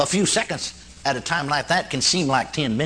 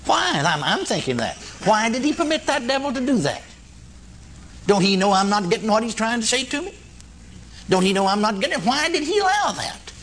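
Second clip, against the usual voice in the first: anguished plea; 5 semitones higher than usual. Retold or imitated. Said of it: "replayed clip of plea".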